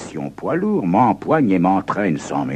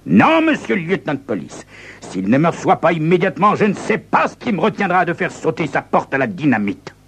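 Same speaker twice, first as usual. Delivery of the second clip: cool threat; 10 semitones higher, faster than usual. Acted. Visitor threatens the mayor.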